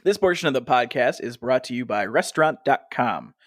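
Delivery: steady sponsor read, crisp and even. Acted. Host reading the restaurant sponsor spot, smooth ad voice.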